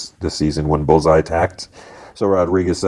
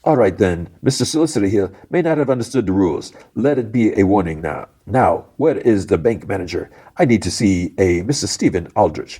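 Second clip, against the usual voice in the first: bad Irish accent; 3 semitones higher than usual. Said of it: "He has, a, like, Irish accent, and my Irish accent's, like, horrible".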